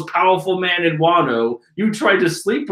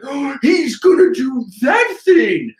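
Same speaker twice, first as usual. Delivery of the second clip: high, loud mock-panicked minion; stating the obvious; 7 semitones higher, 4 dB louder than usual. Nameless minion stating the obvious, high mock panic. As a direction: gasp it out with hammed-up alarm. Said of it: "they just go stating the obvious, like".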